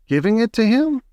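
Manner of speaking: high, breathless disbelief; gasping. A narrator's reading. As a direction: gasp it in astonishment. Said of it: "gasped Grandpa Joe".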